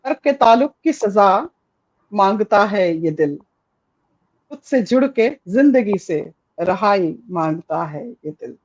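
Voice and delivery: poetry recitation, dropping gently on the last line; reading a poem aloud. Shown as a demonstration. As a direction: read the verse like a poet sharing his lines. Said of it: "I will just read it out".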